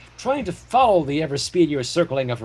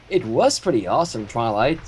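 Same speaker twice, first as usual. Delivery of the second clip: suave; 7 semitones lower than usual. Acted. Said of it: "suave as though expecting nothing less".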